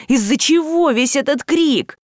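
ordinary delivery

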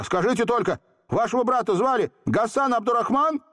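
put-on high, eager boy's question; urgent cry. A narrator's reading. Volka asking the genie about his brother, urgent. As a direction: press for the answer. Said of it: "закричал изо всех сил".

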